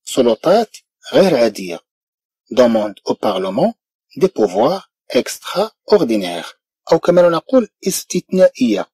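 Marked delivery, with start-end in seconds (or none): 2.5-6.5 very slow, softer French; very slow model phrase. Shown as a demonstration. French teacher reading a news phrase, slowly. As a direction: stretch every word for learners. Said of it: "دي بوفوار إكسترا أوردينير".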